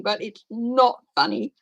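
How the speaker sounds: P=A; laughing, not funny. Real, not acted. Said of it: "I know I'm laughing".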